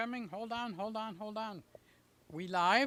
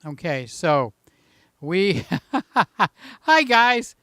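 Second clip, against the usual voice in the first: winded, puffing between words; out of breath after a run; 5 dB louder than usual. Real, not acted. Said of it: "a little out of breath from running".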